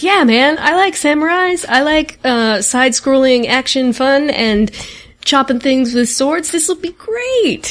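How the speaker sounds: retold eager excitement. Retelling her eager first reaction.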